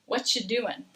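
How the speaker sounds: casual American "What you doing", G dropped. Shown as a demonstration. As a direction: run together as "What you doin'". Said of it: "we're going to drop this G".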